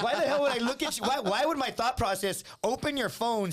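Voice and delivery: high, laughing disbelief; mock outraged amusement; retold incredulous cousin. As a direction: mimic a friend cracking up in protest. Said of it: "he's, like, laughing".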